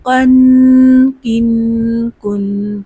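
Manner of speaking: slow, spelled-out drill for students to repeat; slow drill recitation. Shown as a demonstration. Teacher leading a spelling drill, slow. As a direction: chant each syllable slowly. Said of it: "اس کو پر پڑھتے ہیں".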